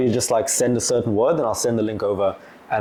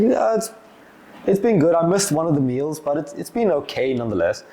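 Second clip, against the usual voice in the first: noncommittal; 4 semitones higher than usual. Retold or imitated. Imitating team member's lukewarm answer.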